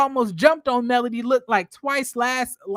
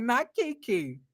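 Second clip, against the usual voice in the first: disbelieving; 6 dB quieter, slower than usual. Retold or imitated. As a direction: mutter Not Kiki in dry disbelief. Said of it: "I was like".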